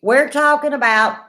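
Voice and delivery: talking around a mouthful of ice. Real, not acted. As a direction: speak with ice in your mouth. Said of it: "I got ice in my mouth".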